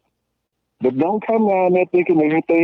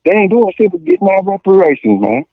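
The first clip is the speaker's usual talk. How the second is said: heated rant; 3 semitones higher, 6 dB louder than usual. Real, not acted. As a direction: push it out loud, getting worked up. Heated rant about boycotting.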